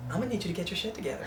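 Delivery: soft, quick and nice; gently telling someone off; saying it nicely. Retold or imitated. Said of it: "she'll say it nicely".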